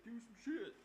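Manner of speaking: high hyped-up call from the friends; excited teenage shout; egging on. Retold or imitated. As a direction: urge him on like a teen crowd.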